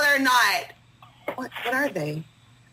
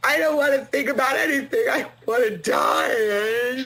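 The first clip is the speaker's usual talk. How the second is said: crying despair. Acted. Despairing mother after accident.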